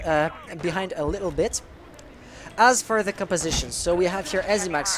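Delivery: measured esports commentary, searching for words; English play-by-play. Acted. French caster calling a round in English for the chat, measured. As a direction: narrate the round calmly, thinking aloud.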